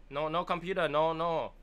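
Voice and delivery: high, loud broken-English put-on accent; crazy put-on accent. Prank on advertisement caller, crazy put-on accent. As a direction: play clueless in a hammed-up foreign accent. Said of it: "like, accents".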